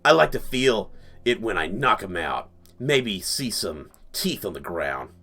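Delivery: lightly voiced deep tough lady, unhurried; tough grandma. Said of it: "these are both tough grandma type ladies".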